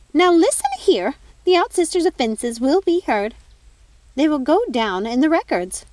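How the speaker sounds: a furious fairy godmother asserting her authority; angry. Acted. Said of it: "She was so angry".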